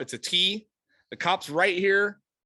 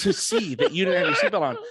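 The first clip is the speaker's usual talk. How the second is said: louder, insistent imitation of an irked cop; retold annoyance; 5 dB louder than usual. Cop accusing a driver over a seatbelt, retold irritation. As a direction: push the accusation home, mock exasperated. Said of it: "starting to get pissed".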